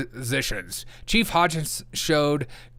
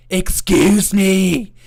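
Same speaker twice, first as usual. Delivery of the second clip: high, slow, indignant put-on voice, louder; angry leftist voice; 5 semitones higher, 8 dB louder, much slower than usual. Mocking an angry leftist, indignant high put-on voice. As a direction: drag out "Excuse me" in an offended squeal. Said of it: "That's my angry leftist voice".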